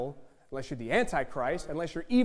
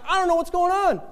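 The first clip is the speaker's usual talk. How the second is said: much higher, louder, bewildered; confused reader voice; 13 semitones higher, 10 dB louder than usual. Pretend. Confused NIV reader in church, much higher and bewildered. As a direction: play the lost reader. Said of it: "and you're like".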